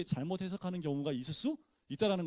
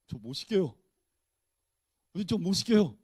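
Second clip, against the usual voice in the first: louder, insistent refusal rising on the repeat; mock refusal; 5 dB louder than usual. Shown as a demonstration. Peter refusing to let Jesus wash his feet, loud protest. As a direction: Peter pushing back hard. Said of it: "이렇게 얘기해야 돼요?".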